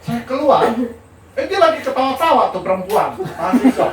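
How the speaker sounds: high, loud, helpless laughing delivery; laughing hard. Real, not acted. Lecturer admitting a student tricked him, laughing loudly. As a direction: tell it while cracking up at yourself.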